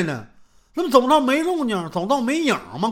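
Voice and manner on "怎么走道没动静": usual speaking voice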